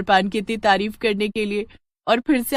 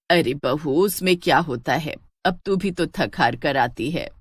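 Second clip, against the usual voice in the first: put-on lower, mellow voice of an elderly mother-in-law; old mother-in-law; 5 semitones lower than usual. Elderly mother-in-law pleased with Sheila's news, lower voice. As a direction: speak low and fond, like an old mother praising her daughter-in-law.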